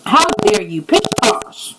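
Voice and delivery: indignant "How dare you" then a whispered scoff; mock offended, airy dismissal; with attitude. Shown as a demonstration. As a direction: huff it, then brush it off. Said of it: "say it with some attitude".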